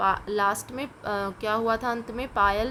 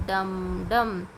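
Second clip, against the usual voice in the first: drum sound; 2 semitones lower, much slower than usual. Shown as a demonstration. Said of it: "डमरू की आवाज़ कैसी होती है?".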